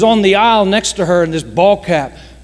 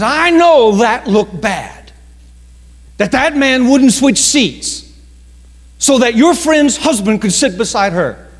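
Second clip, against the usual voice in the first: confiding stewardess; 5 semitones higher, 4 dB louder than usual. Retold or imitated. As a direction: lean in and let him in on a secret. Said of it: "She says".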